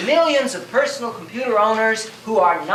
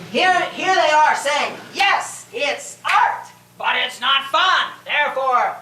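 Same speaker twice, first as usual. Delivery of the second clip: higher-pitched mock indignation, punching the key words; mocking incredulity; 4 semitones higher, slower than usual. Game designer mocking reviewers to an audience, incredulous. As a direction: scoff through the reviewers' verdict.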